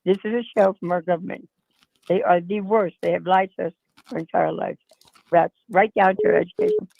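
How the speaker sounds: a little hoarse voice; slightly rough, hoarse throat. Real, not acted. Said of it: "I'm a little hoarse".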